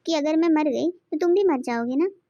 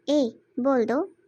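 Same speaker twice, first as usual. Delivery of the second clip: very slow, stretched "ए, बोल दो"; wife coaxing her husband to say it; drawn-out plea; much slower than usual. Acted. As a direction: drag it out, coaxing. Wife pleads slowly.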